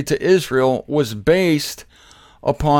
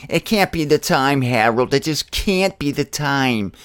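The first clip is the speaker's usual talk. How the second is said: mock doubter. Doubter telling his friend Harold it can't be the time, mildly scoffing. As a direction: lightly play the scoffer who won't believe it.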